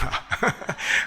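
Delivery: quick airy chuckle; a short breathy mock laugh. Pastor imitating the deaconess laughing proudly at the photo, airy chuckle. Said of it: "하면서 으쓱 웃고 했는데요".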